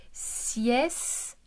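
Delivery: "sieste" stretched, with a gap before the final te; split into syllables. Shown as a demonstration. Teacher showing where the sound sits, "sieste" syllable by syllable. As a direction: sound out "sieste" as siès, pause, te. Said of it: "au milieu de la syllabe".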